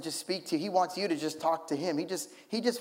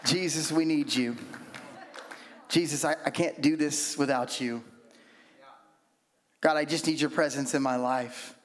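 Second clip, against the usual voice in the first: simple prayer; 2 semitones lower than usual. Retold or imitated. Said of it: "it's like this".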